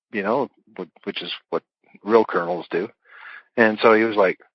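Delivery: ordinary talk, nothing marked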